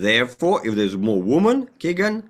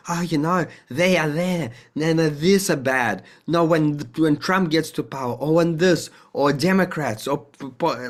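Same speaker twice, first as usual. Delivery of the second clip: higher, whiny complaining, lightly imitated; mock kitchen bickering; 5 semitones higher than usual. Mimicking people bickering in the kitchen, higher complaining voice. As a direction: grumble like people moaning about politics.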